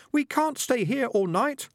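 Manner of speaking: chorus of rats. A narrator's reading. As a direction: chant it like tiny rats. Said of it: "a chorus of voices from his trousers".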